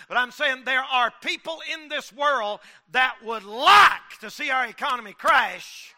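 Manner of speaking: slow, loud preacher's shout; fiery preaching. Acted. Preacher warning his congregation, shouting slowly.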